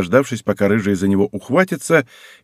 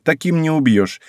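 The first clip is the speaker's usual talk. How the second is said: slow, lofty and a bit higher; grandiloquent; 6 semitones higher, slower than usual. Acted. Girl boasting about the Koyama women, grandly. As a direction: declaim it like a proud family motto. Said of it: "произнесла она высокопарно".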